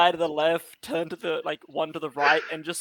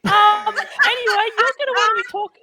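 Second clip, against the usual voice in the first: fast, higher Australian bogan voice; sassy bogan; 11 semitones higher, faster than usual. Acted. Tree dropping its act in a fast Australian bogan voice. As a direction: rattle it off like a cheeky Aussie bloke. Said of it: "Why does he sound like a sassy bogan?".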